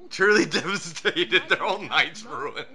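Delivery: mock devastated. Mocking crying ponies.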